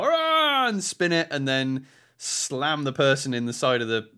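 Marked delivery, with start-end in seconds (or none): 0.0-0.7 sudden high shouted "Ah"; battle cry yell. Retold or imitated. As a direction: yell it like you're swinging hard. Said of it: "or if you go".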